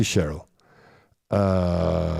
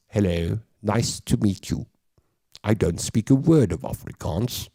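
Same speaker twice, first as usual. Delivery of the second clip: mock Queen's English accent; Pietermaritzburg British accent. Imitating people in Pietermaritzburg, put-on British accent. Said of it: "who spoke like this".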